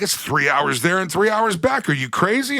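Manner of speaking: a bad Irish accent gasping at the distance; Irish clerk is shocked at the Texans' day trip, in a put-on Irish accent. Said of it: "with a really cool Irish accent".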